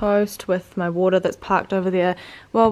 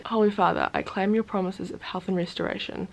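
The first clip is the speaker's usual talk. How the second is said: reading a prayer; 5 dB quieter than usual. Acted. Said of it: "I'll read you guys the prayer".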